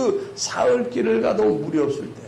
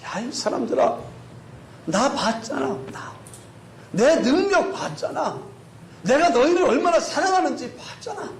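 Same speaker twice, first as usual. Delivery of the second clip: high, pleading acted reproach; frustrated voice of God, acted; exasperated; 8 semitones higher than usual. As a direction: remonstrate with people who should know better. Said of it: "하나님이 답답합니다".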